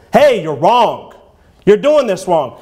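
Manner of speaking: slow, blunt call-out; blunt rebuke. Shown as a demonstration. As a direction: spell out the wrong bluntly and slowly. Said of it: "you don't have to say it like that".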